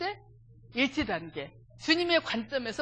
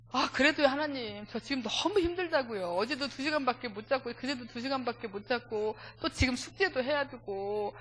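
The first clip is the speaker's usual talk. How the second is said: mild pleading complaint, retold; grumbling to God. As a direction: list your hardships like a mock whine to God. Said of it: "막 투덜투덜을 막 했는데". (하나님께 투덜대듯 하소연하는 말투)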